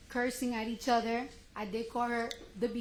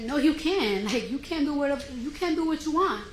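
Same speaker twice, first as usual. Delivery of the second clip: 1 retold argument; 3 semitones higher, 4 dB louder than usual. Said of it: "that's when we started arguing".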